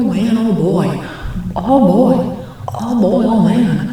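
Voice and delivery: hammed-up oh-boy wailing. Imitating how they'd react, hammed-up swooping dismay. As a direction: loop it with a big wavy swoop.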